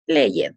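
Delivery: PLAYED in two syllables, play-ed; read as spelled. Shown as a demonstration. Teacher showing students how it is written, PLAYED read as spelled. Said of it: "leyendo cómo se escribe".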